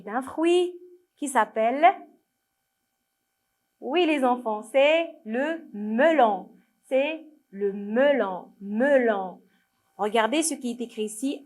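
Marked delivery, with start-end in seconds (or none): 4.6-9.4 "melon" very slow, me and lon both drawn out; slow model reading. Shown as a demonstration. Teacher naming the fruit for children, "melon" slow and drawn out. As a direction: stretch "melon" syllable by syllable. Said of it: "il manque la".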